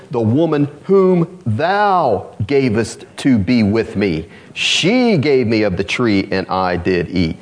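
slow, weighted scripture quote; the real verse, read slowly; slow emphatic reading. Shown as a demonstration. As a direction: stretch "whom thou gavest" slowly and deliberately. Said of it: "This is what he really said".

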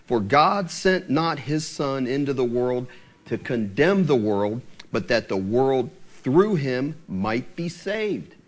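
slow, measured scripture reading. Acted. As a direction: read the verse out slowly and deliberately. Reads scripture aloud.

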